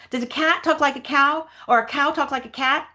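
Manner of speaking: lightly voiced character making a case; Huck Finn. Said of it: "read the Huck Finn lines".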